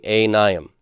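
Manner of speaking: "Anayim" spoken clearly for the class to repeat; say it together. Shown as a demonstration. Teacher leads students repeating "Anayim" together. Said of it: "Everybody say that with me".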